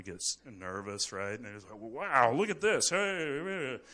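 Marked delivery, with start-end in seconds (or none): 1.8-3.8 high, loud gawking mechanic; excited mechanic. Retold or imitated. Mechanic calling his buddies over, excited and loud. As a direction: gawk at the engine like a payday.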